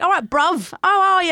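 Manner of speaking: English bloke greeting. Retold or imitated. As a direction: lightly imitate an English lad's hello. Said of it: "come up and be like".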